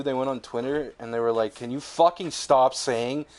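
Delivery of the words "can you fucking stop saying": slow, emphatic mock scolding; retold angry demand. Sony on Twitter to rumor spreaders, mock mad. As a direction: imitate an exasperated company telling fans off. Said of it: "when fucking Sony was so mad too".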